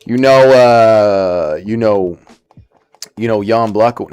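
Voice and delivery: put-on drawled regular American accent; lightly imitated American accent, drawn-out filler words; Sean Brady. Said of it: "to do a good Brady impression".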